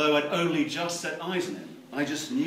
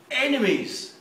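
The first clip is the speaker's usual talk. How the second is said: high mocking echo; 11 semitones higher, 7 dB louder, slower than usual. The speaker repeats word.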